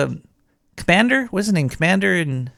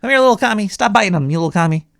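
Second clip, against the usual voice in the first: doting dog owner; 3 semitones higher, 4 dB louder, faster than usual. Retold or imitated.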